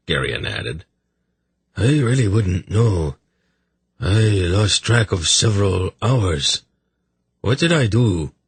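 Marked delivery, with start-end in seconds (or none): 1.8-8.3 lightly voiced miserable king, complaining; a touch of hungover self-pity; hungover sufferer. Hungover king complains to his brother, lightly voiced misery.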